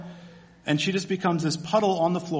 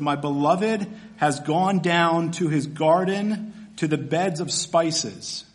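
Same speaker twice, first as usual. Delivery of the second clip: slow, savoring each word of the verse; slow reading; slower than usual. Shown as a demonstration. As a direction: draw out every word of "My beloved has gone down". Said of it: "she said".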